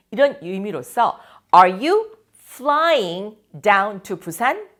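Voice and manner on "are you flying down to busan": Are you taking the subway to school? said very slowly and clearly; slow, careful question for the class; slow model question. Shown as a demonstration. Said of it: "teacher models the question".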